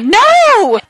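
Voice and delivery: high, loud, drawn-out mock "no"; retold emphatic refusal. Friend refuses coffin request, loud mock refusal.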